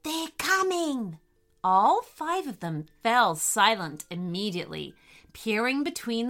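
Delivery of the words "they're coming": high, slow, urgent warning; urgent wombat warning. A narrator's reading. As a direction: warn the others of approaching danger. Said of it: "hushed the wombat urgently".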